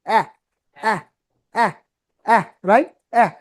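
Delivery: short open "æ", written এহ or আহ, jaw dropped; open jaw vowel. Shown as a demonstration. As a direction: let the jaw fall on each short এহ. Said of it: "চোয়ালটা নামবে".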